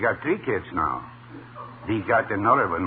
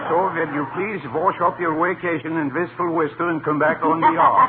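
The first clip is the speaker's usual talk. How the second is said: mock Irish voice; 4 semitones higher, 3 dB louder than usual. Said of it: "I changed my voice with Irish dialect".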